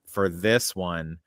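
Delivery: slow, drawn-out fake announcement; mock hype. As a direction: drag out the title like a fake trailer. Mock-hyping an unwanted sequel.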